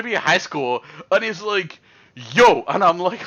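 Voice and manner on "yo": mock tough greeting. Big guy greets him.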